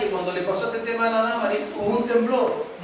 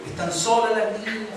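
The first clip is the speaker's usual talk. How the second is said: worried mother. Retold or imitated. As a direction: sound like mom panicking on the phone. Voicing his worried mother.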